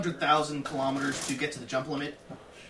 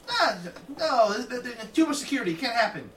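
mock smug dismissal; 9 semitones higher, 4 dB louder than usual. Mocking overconfident bike owner.

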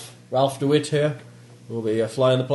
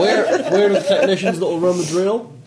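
loud, higher-pitched character voice; in-character demand; 5 semitones higher, 7 dB louder than usual. Acted. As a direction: call out the question loud and high. Asking in character after introduction.

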